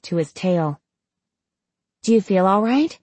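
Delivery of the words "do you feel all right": concerned questioning. Acted. Cricket anxiously checks her patient.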